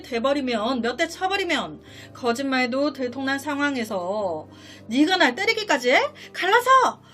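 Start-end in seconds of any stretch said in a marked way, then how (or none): 4.9-7.0 higher, building to a loud mock shout; acted outraged yell. Husband imagines wife demanding a split after being hit, acted outraged yell. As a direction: play the wife exploding in indignation.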